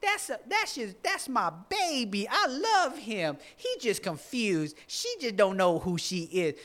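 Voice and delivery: high, sweet granny voice, slow and adoring; doting grandmother. Retold or imitated. Grandmother defending her wayward grandchild, high doting voice. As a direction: coo over the grandchild like a loving grandma. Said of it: "your grandmother that's like".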